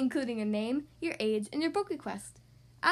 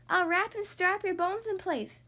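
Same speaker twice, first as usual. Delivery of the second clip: boastful mummy voice; 5 semitones higher than usual. Acted.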